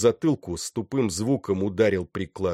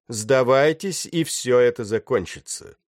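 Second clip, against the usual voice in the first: raised, higher call to surrender; 4 semitones higher, 5 dB louder than usual. A narrator's reading. Attacker to the ship's crew, calling out loudly.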